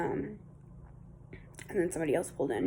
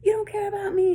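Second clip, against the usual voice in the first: much higher, louder imitated wail; mock wail; 12 semitones higher, 6 dB louder than usual. Imitating the neighbor wife accusing her husband, high loud mock wail. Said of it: "she started saying".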